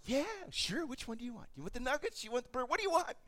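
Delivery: dad eagerly offering his son anything. Retold or imitated. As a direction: fuss over the kid with choices.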